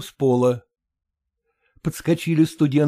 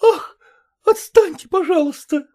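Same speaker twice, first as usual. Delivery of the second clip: put-on much higher, louder exasperated girl; irritated girl; 4 dB louder than usual. A narrator's reading. Nadin snaps at her fussing mother, high and irritated. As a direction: brush them off impatiently.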